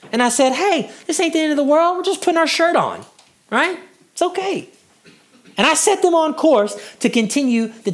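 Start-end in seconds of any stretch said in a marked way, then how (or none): 0.5-4.7 put-on higher-pitched, comforting parent to a child; reassuring father. Dad to his struggling child over a shirt, reassuring. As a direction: soothe a tearful little one, pitched up.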